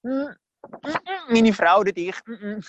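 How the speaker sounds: high panicky hums and little yelps; hammed-up flustered buck-passing; dodging blame. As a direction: squirm to pass the blame on. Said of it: "Der Adam hört gerade den schwarzen Peter".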